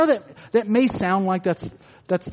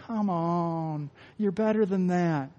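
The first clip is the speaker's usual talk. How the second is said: gentle, much softer nudge; loving tone; 4 dB quieter, slower than usual. Retold or imitated. Pastor voicing Jesus to his disciples, softly loving. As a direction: coax them like a fond parent. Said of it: "but a loving tone".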